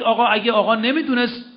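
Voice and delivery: a hint of a naive protester; mock objector. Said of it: "نگید".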